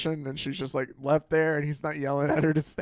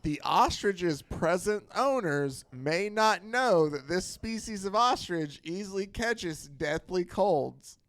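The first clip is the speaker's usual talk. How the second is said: radio bulletin; slower than usual. Retold or imitated. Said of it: "a bulletin over the radio".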